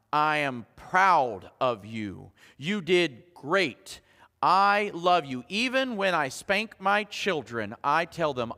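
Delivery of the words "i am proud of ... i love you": slow, tender and deliberate; slowly reassuring a child; tender affirmation. Shown as a demonstration. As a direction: say each word like a gift.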